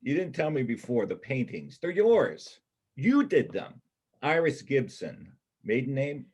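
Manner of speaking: thrilled he's found her secret; the paintings are hers and it lights him up; excited discovery. Acted.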